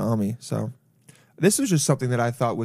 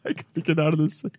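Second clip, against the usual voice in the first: mock crying; 2 semitones higher, faster than usual. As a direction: wail it dramatically.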